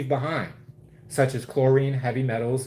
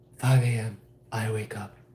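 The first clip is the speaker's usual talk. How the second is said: slow, drawn-out bedroom pillow-talk voice; 3 semitones lower than usual. Quoting someone from a video being critiqued: imitating a pillow talk voice. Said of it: "in her pillow talk voice".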